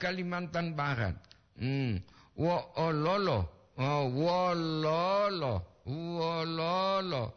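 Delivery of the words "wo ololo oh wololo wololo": "wololo" with a drawn-out double O, slow; long double o. Shown as a demonstration. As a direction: stretch the O sounds in "wololo" slowly. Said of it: "Itu dua O". (ucapkan "wololo" pelan dengan O panjang)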